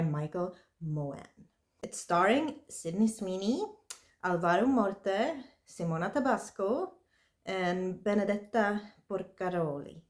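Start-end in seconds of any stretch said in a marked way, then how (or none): 4.2-10.0 put-on names said with a light Italian accent. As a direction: roll the names a little like an Italian. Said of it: "trying to say it in, like, Italian accent".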